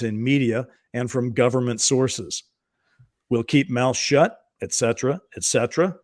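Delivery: measured reading of a document, lightly performed; memo read aloud. Acted. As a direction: read it out like quoting a transcript. Reads out the memo text.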